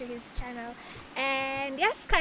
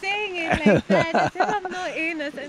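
indignant protest; 4 semitones higher, 7 dB louder than usual. Real, not acted. Friend protesting the teasing.

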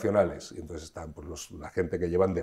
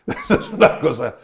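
laughing through it, much higher and louder; 11 semitones higher, 8 dB louder than usual. Real, not acted. Actor laughing to interviewer about switching to Cuban: laughing. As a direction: laugh at yourself as you say it. Laughs at his accent mix-up.

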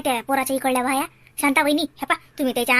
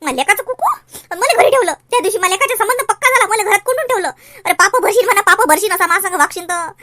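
louder, higher aggrieved rant at her husband; bitter complaint; 5 semitones higher, 4 dB louder than usual. Acted. Wife rails about the husband who locked her home, aggrieved and loud. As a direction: pour out the grievance over being locked in.

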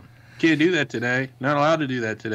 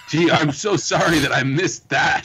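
sarcastic; 4 semitones higher, 4 dB louder, slower than usual. Acted. Ironic reply to dull movie.

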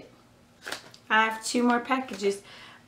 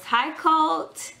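high excited greeting; 7 semitones higher than usual. Real, not acted. Greeting a toddler viewer, high and excited. Greeting a two-year-old fan.

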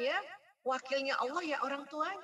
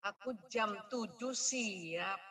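lightly voiced child, slow; a hint of an understanding child; slower than usual. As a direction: realize it like a child. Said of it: "Jadi anaknya ngerti".

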